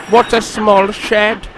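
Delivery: proud engine grumbling at his new shed. A narrator's reading. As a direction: complain about the shed. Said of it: "grumbled Sir Handel".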